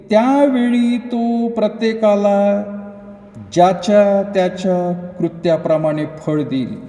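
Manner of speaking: slow, deliberate Bible reading; measured scripture recitation with stretched words. Acted. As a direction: draw out each phrase of the verse solemnly. Reads scripture aloud.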